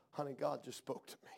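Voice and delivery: wife's words retold low and soft; hushed retold confiding. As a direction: imitate a moved wife, confiding very softly. Wife tearfully shares what God said.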